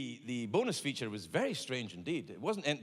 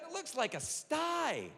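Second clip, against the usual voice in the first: doctor voice; 12 semitones higher, slower than usual. Retold or imitated. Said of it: "She went".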